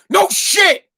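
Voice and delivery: high mocking "no shit"; sarcastic retort. Dad answering his crying son with sarcasm. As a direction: toss it back with scorn.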